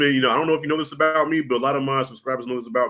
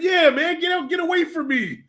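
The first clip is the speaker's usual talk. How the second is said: much higher, loud, hammed-up yell; mock shout; 11 semitones higher, 4 dB louder than usual. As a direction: shoo the kid away, half laughing. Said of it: "I said".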